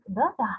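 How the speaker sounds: "the da" with weight on DA; short weak "the", strong "da"; stress on second syllable. Shown as a demonstration. Teacher repeating the iambic beat, second syllable stressed. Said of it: "They sound like".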